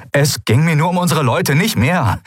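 desperate. Acted. Sephiron justifying himself to the captain, mildly desperate. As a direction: plead a little too hard. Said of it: "wie verzweifelt er klang".

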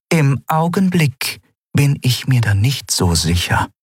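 cool warning to a protégé; Zaylar's voice. Acted. Captain warning her protégé, cold and disappointed.

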